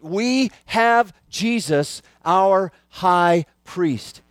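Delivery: very slow, weighty; drawn-out pulpit statement; preaching emphasis. Acted. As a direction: land the point word by word.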